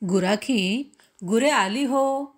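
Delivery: a cowherd's call across the yard. Acted. Cowherd announcing the cattle are home, calling out. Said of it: "एवढे ओरडून".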